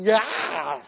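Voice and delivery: imitated rising scream; retold scream of terror; blood-curdling scream. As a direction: cut loose a short acted shriek. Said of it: "blood-curdling".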